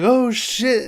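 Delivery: high "oh shit" of sudden realization; acted alarm. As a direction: retell a startled group reaction. Characters see the new zombie.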